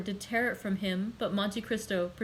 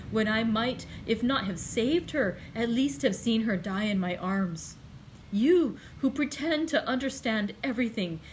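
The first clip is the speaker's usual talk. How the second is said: rising anger and reproach; 2 semitones higher, 3 dB louder than usual. Acted. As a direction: build the blame against him. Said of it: "with increasing anger and reproach".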